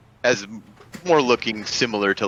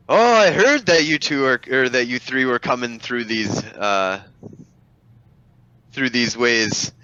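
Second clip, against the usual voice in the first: dapper gentleman; 3 semitones higher than usual. Acted. GM voices dapper NPC.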